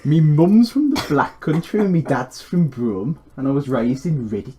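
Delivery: lightly put-on Black Country voice; a hint of Black Country accent. Introducing himself in a light Black Country accent. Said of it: "That's not me, by the way".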